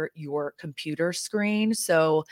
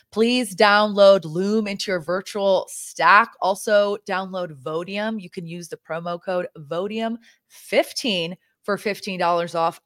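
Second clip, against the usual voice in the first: commercial plug; 2 semitones higher, 5 dB louder than usual. Shown as a demonstration. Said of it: "I'm gonna pretend this is a commercial".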